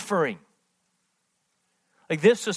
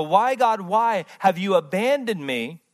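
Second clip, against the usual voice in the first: anguished cry; 3 semitones higher, 3 dB louder than usual. Acted. Preacher voices Jesus on the cross.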